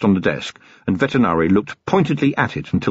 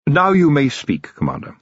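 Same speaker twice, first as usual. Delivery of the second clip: Vetinari's dry voice; 6 semitones higher than usual. A narrator's reading. The Patrician lecturing Vimes, cool and measured. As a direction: lecture him with icy patience.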